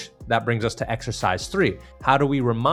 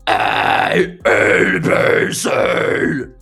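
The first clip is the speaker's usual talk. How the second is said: false chord scream; 9 dB louder, much slower than usual. Shown as a demonstration. Scream demo of letters.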